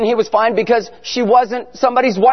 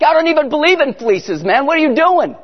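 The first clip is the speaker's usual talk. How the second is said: exasperated disbelief; 5 semitones higher than usual. Retold or imitated. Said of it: "I'm like".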